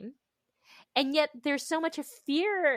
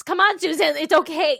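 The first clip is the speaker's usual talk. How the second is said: self-encouragement; 5 semitones higher, 9 dB louder than usual. Retold or imitated. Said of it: "coach myself".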